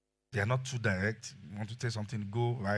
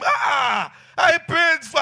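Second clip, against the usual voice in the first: high mock scream at the beard; high retold baby shriek; 14 dB louder, much slower than usual. Daughter screaming at his beard.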